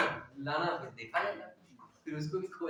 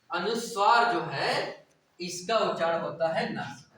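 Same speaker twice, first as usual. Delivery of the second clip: slow teaching emphasis; 6 dB louder, slower than usual. Shown as a demonstration. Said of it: "ये याद करना पड़ेगा आपको".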